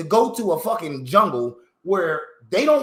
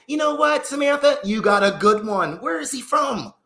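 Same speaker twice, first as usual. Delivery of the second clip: mock impressed white mom; 4 semitones higher than usual. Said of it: "let that nigga come".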